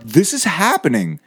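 high, wide-eyed this is happening; thrilled disbelief. Retold or imitated. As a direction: gasp it out like a dream coming true. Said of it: "I'm just like".

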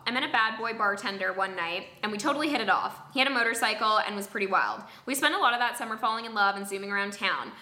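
even, measured reading of an anecdote; scripted first-person storytelling; story read aloud. Acted. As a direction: read the story out neatly, line by line. Reads a submitted story aloud.

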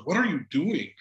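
retold pointed question from a wife; mild mock confrontation. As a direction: lightly imitate a wife calling her husband out. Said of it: "so shocked with the tone".

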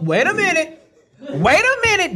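excited protest. Real, not acted. Insisting he was right about the name, high and excited. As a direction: stop everyone, laughing.

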